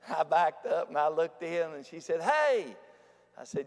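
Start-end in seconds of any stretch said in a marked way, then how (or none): 2.2-2.8 high, swooping call from a distance; little voice. Retold or imitated. Patient calling preacher from a hospital room, little voice. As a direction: mimic a small voice calling someone over. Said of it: "this little voice said".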